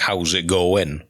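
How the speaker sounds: slow, lightly put-on Welsh lilt; Welsh accent. Shown as a demonstration. Showing co-host English small talk, Welsh accent. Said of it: "but with a Welsh accent".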